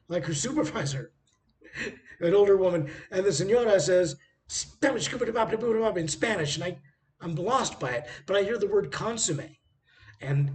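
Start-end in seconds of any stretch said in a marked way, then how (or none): 4.5-6.6 mock Spanish gibberish. Supervisor rattling off Spanish.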